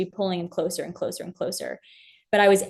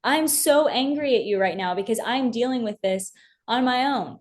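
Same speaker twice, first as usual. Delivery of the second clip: David screaming at God; 5 semitones higher than usual. Retold or imitated. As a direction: cry out to God as if betrayed, voice raised high. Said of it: "I can see David screaming that from the top of his lungs".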